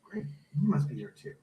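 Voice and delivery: muffled, distant recording; like talking inside a tube; through a tube. Real, not acted. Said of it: "He's in a tube".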